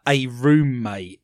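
"a roommate" slowed right down, set apart as if in quotes; air quotes. Real, not acted. Host doubts the star has a roommate, air quotes. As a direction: put audible quote marks round "a roommate". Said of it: "the commas with my fingers".

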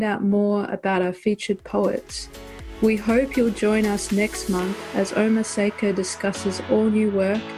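bright announcer read over music; podcast outro announcer. Acted. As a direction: sign off the show like a host.

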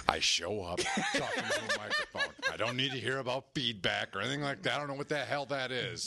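high, laughing mimic of John; mimicking his buddy with a laugh; high, laughing parody of a bandmate; mock quote of John. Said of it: "You said".

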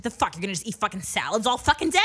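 imitated incredulous mom outburst; angry mom. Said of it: "why you're so angry".

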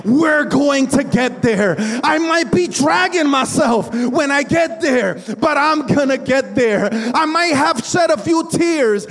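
building revival sermon voice; full-force preaching. Acted. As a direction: drive it home to the congregation.

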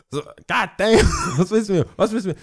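fed up with all the questions; exasperated outburst. Retold or imitated.

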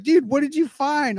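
high-pitched eager question; mock-excited high voice; excited retold question. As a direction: imitate an excited friend asking, pitched right up. Acting out friend's eager question.

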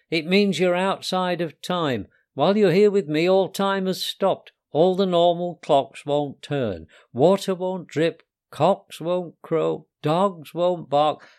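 lightly voiced proud little creature; eager little Costello. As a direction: show off what he knows, the last words slowed. Costello explains time field.

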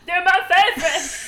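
loud, high, hammed-up whine; Beast impression. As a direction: blurt it out in a put-on Beast voice. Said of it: "The way he says it".

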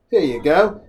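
builds from plain talk to a high shouted cry; hammed-up rising yell. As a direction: spiral up into a mock scream. Hammed-up captain rant.

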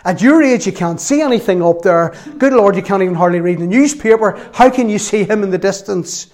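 doubting, scolding retort, pitch jumping up; disbelieving wife. Retold or imitated. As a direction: imitate an incredulous wife questioning her husband. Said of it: "she can't believe it".

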